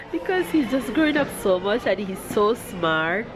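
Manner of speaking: talking through real tears; a mother crying as she watches her son grow up. Real, not acted. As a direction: let the tears catch in the voice. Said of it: "Why am I crying?".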